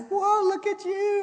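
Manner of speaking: high, slow delighted whoa; thrilled for a friend's new car; excited whoa. Retold or imitated. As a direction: cheer her on.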